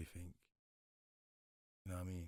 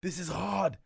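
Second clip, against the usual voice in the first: loud, high, slow hype like an excited friend; hyped-up praise; 9 semitones higher, 10 dB louder, slower than usual. Retold or imitated. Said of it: "the only person used to tell me".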